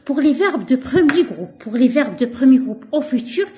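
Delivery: slow, deliberate statement of the rule; teacher stating a rule slowly; slow rule dictation. Shown as a demonstration. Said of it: "states rule slowly".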